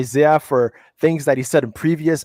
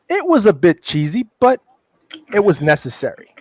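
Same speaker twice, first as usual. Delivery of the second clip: friend's verdict voiced a touch higher; a hint of the friend's voice, higher; quoting a friend; 5 semitones higher than usual. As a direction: lightly play the friend shrugging it off. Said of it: "He goes".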